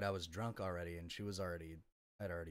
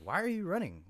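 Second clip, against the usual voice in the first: high, loud mock yell at his girlfriend; yelling after her, pitched way up; retold yell; 11 semitones higher, 9 dB louder than usual. Man chasing his girlfriend, yelling high and loud.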